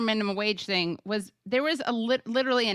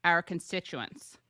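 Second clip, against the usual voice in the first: Regina George voice. Retold or imitated. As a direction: read it like the queen bee of school. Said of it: "you kinda read that in a Mean Girls voice".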